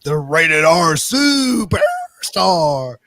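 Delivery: slow, loud, rasped wrestler announcement; Rated R Superstar voice. Pretend. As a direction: drag it out like a wrestling star. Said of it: "I'm turning into Tony Schimmel".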